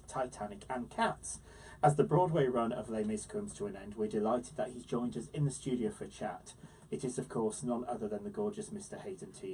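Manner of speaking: scripted guest introduction, punchy at first; presenter's intro. Acted. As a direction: present the star to listeners.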